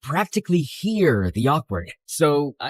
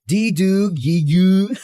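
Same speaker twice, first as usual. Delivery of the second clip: put-on teasing babble like a baby; baby talk; 3 semitones higher, slower than usual. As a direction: coo it mockingly like a toddler. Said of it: "Sounds like a baby trying to talk".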